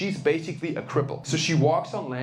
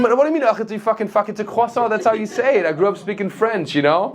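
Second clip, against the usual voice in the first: loud, high, sputtering mock outrage; heated, hammed-up protest; indignant comeback; 7 semitones higher, 9 dB louder than usual. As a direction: snap back at a snooty barista. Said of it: "I said".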